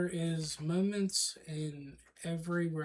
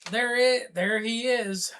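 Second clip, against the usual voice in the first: pointing accuser; 4 semitones higher, 4 dB louder than usual. Acted. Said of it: "just point and say".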